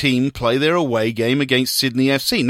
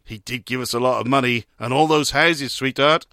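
slightly forlorn; 2 semitones lower than usual. Acted. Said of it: "said slightly forlornly".

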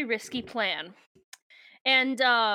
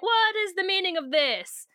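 higher, haughty mock villain demand; Visser Three impression; 7 semitones higher than usual. Axe imitates Visser Three to fool the Taxxon, haughty mock voice. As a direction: play the indignant alien overlord. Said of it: "do a convincing Visser Three impression".

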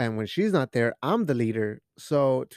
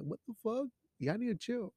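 mock scolding; 8 semitones higher, 10 dB quieter than usual. Mock scolding own body.

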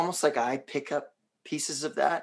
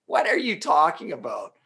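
Parisian-tinged English; 4 semitones higher, 4 dB louder than usual. Retold or imitated. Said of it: "even in how he said it".

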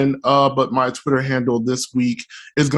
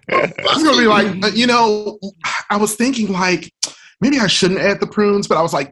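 auntie voice; 4 semitones higher, faster than usual. Pretend. Continuing Tiffany character.

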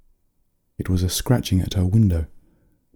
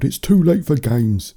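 higher, slow scolding from dad; restrained yell; father's yell; 6 semitones higher, 4 dB louder than usual. A narrator's reading. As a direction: draw out a cross father's order, moderately raised. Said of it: "her father yelled".

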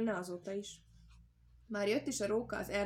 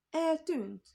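high, loud put-on astonishment; feigned surprise; 8 semitones higher, 7 dB louder than usual. Hawk faking surprise to the fox, high loud mock gasp. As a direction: play shocked, overdoing it. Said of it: "adta a meglepettet a héja".

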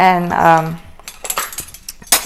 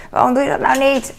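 sharp tone; 6 semitones higher than usual. Shown as a demonstration. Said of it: "maar gewoon zo'n toon".

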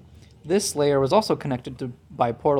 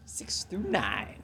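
slow, whispered realisation; barely voiced, drawn out; hushed innuendo; 4 semitones lower, 11 dB quieter, slower than usual. Real, not acted. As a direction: whisper it slowly, savouring the dirty joke. Lingers on accidental innuendo.

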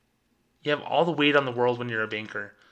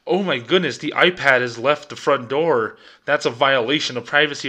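put-on voice, louder, fussy alarm; mock panic; 5 dB louder than usual. Mocking bank management fussing over the iPad, put-on mock alarm. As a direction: mimic a panicky bank boss.

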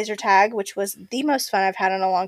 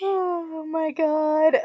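laughing; 7 semitones higher, much slower than usual. Real, not acted. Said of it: "I'm laughing so I don't cry".

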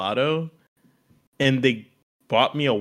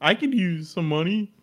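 pitiful begging; 3 semitones higher than usual. Pretend. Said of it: "I'd beg".

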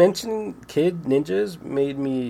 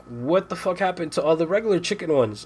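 high, fast mock outrage; a hammed-up higher fit of anger; retold rant; 6 semitones higher, faster than usual. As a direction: rant at the empty pantry, high and quick. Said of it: "I'm like".

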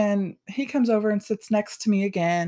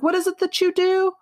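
much higher, sharp challenging question; heated retort; 11 semitones higher than usual. Retold or imitated. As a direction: go after him, heated. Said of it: "I was so heated".

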